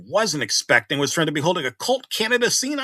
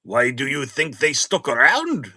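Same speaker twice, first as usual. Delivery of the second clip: put-on slow, half-hearted Russian accent; a lightly put-on cartoon Russian accent; halfish Russian accent; 3 dB louder than usual. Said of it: "Boris asked in a halfish Russian accent".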